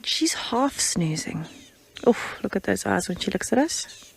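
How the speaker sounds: hushed whisper near a sleeping animal; soft breathy whisper, barely voiced. Real, not acted. Quiet near a resting leopard.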